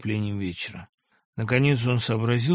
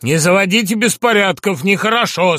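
instructive; 6 semitones higher, 10 dB louder than usual. Acted. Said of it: "сказал наставительно Никита".

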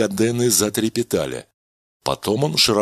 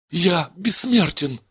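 slow, high exclamation of wonder; he realizes he is immortal; exclaimed; 9 semitones higher, slower than usual. Acted. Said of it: "воскликнул Кадена".

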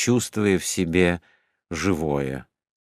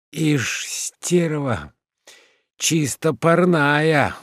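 drowsy, half-asleep mumble; sleepy voice; 8 semitones higher, much slower than usual. Acted. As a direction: say it slow and sleepy. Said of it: "сонным голосом говорил Уклейкин".

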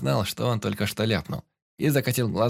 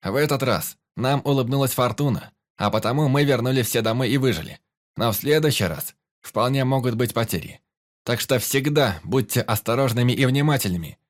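raised, spirited toast; toast speech; 3 semitones higher, 4 dB louder than usual. Acted. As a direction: address the crew in a lifted voice. Captain's toast to the crew.

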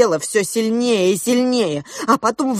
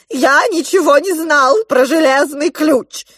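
high, loud desperate plea; king pleading for his life; crying for mercy; 7 semitones higher, 6 dB louder than usual. A narrator's reading.

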